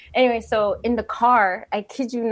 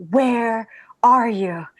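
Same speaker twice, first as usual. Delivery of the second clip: whispered call; 4 dB louder, much slower than usual. Retold or imitated. Wife's worried phone call retold.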